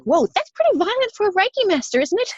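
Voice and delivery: high, incredulous whoa, half joking; shocked disbelief. Retold or imitated. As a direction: react like you can't believe a healer said that. Shocked reaction to Reiki advice.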